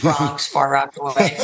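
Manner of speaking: put-on New York accent. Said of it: "I go straight New York".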